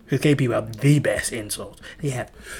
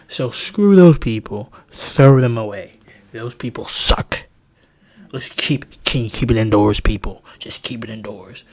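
put-on country accent; 2 semitones lower, 9 dB louder than usual. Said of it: "I always do country".

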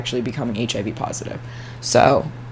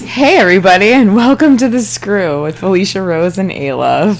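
announcer; 3 semitones higher, 6 dB louder than usual. Acted. Podcast intro announcement.

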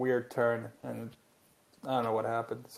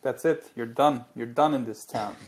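mock producer threat; 6 dB louder than usual. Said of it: "They were like".

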